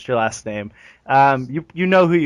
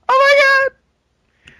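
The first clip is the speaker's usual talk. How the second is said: mock surprise; 7 dB louder, much slower than usual. Pretends to win the giveaway.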